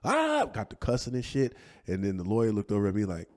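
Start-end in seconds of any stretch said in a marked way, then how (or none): 0.0-0.4 high imitated holler; mock outburst yell. Mother blowing up on the stand, mock yell. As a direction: let out a mimicked blow-up cry. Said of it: "she just blew up on the stand".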